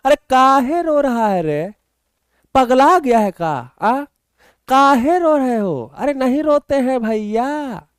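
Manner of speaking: high, slow, drawn-out pleading; a hammed-up wail with stretched vowels; mock wailing. Teacher begging students not to cry, mock wailing.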